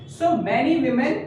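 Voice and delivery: "many women" said slowly, with women sounded wi-men; slow pronunciation demo. Shown as a demonstration. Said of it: "याद रखिएगा pronunciation का difference". ("many women" धीरे-धीरे, women को wi-men बोलें)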